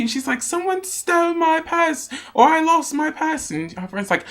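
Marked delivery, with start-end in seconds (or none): 0.4-3.5 put-on ditzy drunk girl. Drunk girl voiced in story.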